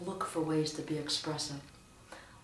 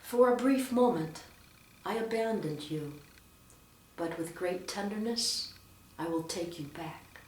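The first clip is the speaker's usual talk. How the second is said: measured reading, softening toward the end; heartfelt reading, paused between phrases; expressive scripture proclamation. Shown as a demonstration. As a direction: proclaim it with feeling, easing down gently. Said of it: "something I really want to get across and express".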